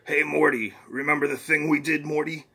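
lightly voiced boastful old scientist; Rick voice. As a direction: brag to Morty as a cocky grandpa. Rick figure in comic reading.

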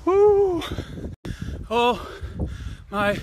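high, loud joyful whoop; excited whoop. Real, not acted. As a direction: whoop it out mid-run. Cheering while jogging uphill.

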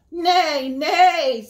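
high, loud mock whinny; horse neigh. Horse calling to the spider, hammed-up high neigh. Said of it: "said the horse".

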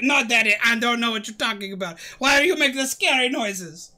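a hint of a low character voice; Small Mike. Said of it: "He's like".

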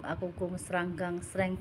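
garbled, stumbling words; tripping over the words; tongue-tied. Real, not acted. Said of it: "sampai belepotan lek ngomong".

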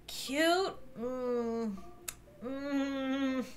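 breathed, questioning whisper; doubtful whisper. Real, not acted. Mom doubts the scary baby is cute, whispering. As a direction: whisper it in disbelief.

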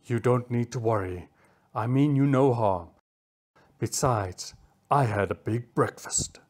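calmer, kindly cheetah; quiet reassurance. Acted. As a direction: reassure the two small ones. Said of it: "he quietly assured Felix and Bunny".

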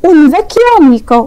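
un vecchio amico spelled out very slowly; slow Italian demo. Shown as a demonstration. A teacher reading un vecchio amico slowly to the class. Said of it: "لو انا رحت قلت هنا كده".

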